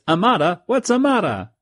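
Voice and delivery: high, baffled chef repeating the word; confused chef. Retold or imitated. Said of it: "the Italian chef says".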